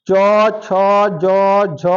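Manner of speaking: tongue to palate for each of "च, छ, ज, झ", separately; palatal consonant drill. Shown as a demonstration. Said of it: "वहीं ले जाकर जीव को बोलेंगे". ("च, छ, ज, झ" तालु से अलग-अलग बोलना)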